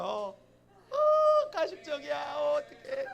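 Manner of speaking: high, loud flustered outburst; real giggly dismay; embarrassed squeal. Real, not acted. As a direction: squeal at your own fakeness. Embarrassed at her own sweet act.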